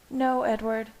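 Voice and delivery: high, firm woman's voice. A narrator's reading. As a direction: say it firmly, close to tears. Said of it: "Bella said firmly".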